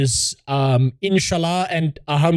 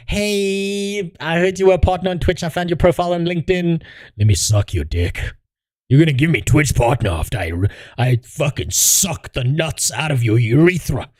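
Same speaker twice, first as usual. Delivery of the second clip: mock female streamer; 3 semitones higher than usual. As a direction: play a streamer sucking up for partner, ending in a shout. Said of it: "Smaller female streamer needs partner on Twitch".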